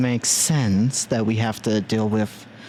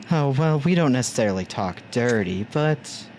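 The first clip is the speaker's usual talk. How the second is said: sultry voice. Pretend. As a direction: tease it out seductively. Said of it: "you speaking in a sultry voice".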